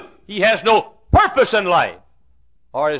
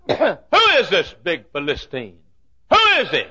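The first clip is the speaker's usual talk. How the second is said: put-on indignant young David. David voiced indignant at giant.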